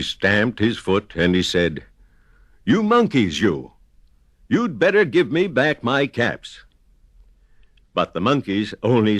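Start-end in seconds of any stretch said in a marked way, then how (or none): 2.7-6.6 quite angry. A narrator's reading. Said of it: "Now he felt quite angry".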